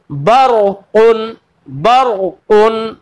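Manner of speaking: बरकुन very slow with a full, heavy ra. Shown as a demonstration. Teacher demonstrates बरकुन for students, very slow. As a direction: stretch बरकुन, making the ra thick. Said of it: "रा को पुर पढ़ना है".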